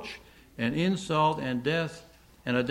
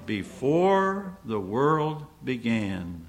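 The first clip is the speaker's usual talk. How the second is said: slow emphatic; much slower than usual. Acted. Answer drawn out slowly.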